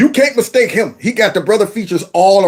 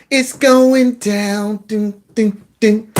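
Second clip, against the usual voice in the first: slow mocking drawl; much slower than usual. Host mimics a supporter's words, slow and drawn out. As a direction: stretch out "It's going down" slowly, mocking her. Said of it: "She said".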